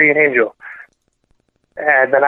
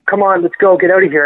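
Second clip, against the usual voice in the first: higher, urgent retold call; mild mock yell; 4 semitones higher than usual. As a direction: imitate people urging him to go, without full volume. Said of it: "People were yelling at me".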